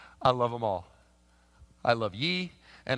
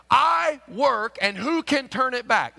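raised plain scripture read; modern translation reading; 9 semitones higher, 8 dB louder, slower than usual. Shown as a demonstration. Pastor comparing the modern translation, raised. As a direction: read the modern version straight. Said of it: "Look at this same verse".

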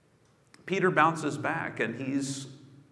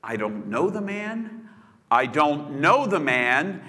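rising denial; 3 dB louder than usual. Retold or imitated. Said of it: "When asked".

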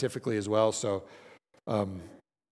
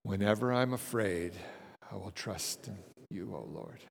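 softer and lower, fading out on the breath; on the exhale; 4 semitones lower, 8 dB quieter than usual. Shown as a demonstration. Leading the group on the exhale, fading to a breath. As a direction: let the words ride out the exhale until they vanish. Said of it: "on exhale, let's quote Psalm fifty-six three".

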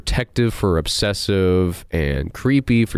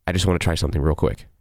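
creepy line; 4 semitones lower, faster than usual. Retold or imitated. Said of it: "creepers and pedophiles use that same line".

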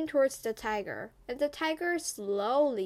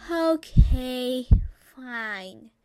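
sighing surrender; 3 dB louder, slower than usual. Acted. Tired grandmother to the baby, sighing in surrender. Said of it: "she sighed as if she was surrendering".

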